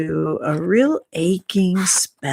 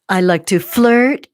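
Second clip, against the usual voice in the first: flirty cheerleader line; 3 semitones higher, 6 dB louder than usual. Retold or imitated. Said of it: "would say".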